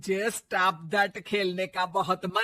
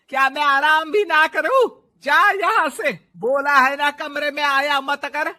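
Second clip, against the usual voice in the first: louder, sharp telling-off; angry scolding; 4 semitones higher, 5 dB louder than usual. Acted. Mother-in-law angrily sends daughter-in-law out of room. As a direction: drive her out of the room.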